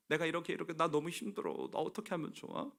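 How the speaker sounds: soft, subdued confiding; confiding discomfort. Retold or imitated. Preacher replays confiding hurt to a trusted friend, softly troubled. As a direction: quietly lean on a trusted friend, mildly troubled. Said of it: "이 불편한 마음을 이렇게 조금이라도 얘기한".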